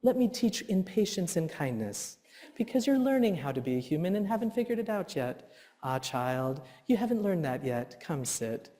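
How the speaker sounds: patient dad. Pretend. Dreaming of being the ideal dad, soft and gentle. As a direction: soothe like an ideal patient father. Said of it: "I wanna be that dad".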